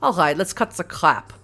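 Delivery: put-on brusque German accent. Kaiser cuts the small talk, German accent. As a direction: get to business in a German accent. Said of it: "I'm gonna do a German accent".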